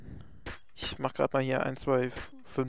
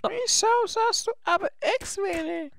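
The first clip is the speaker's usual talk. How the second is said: overdriven distorted mic; clipping, crackly overdriven mic; fuzz distortion. Real, not acted. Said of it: "Du übersteuerst heute gerne dein Mikro".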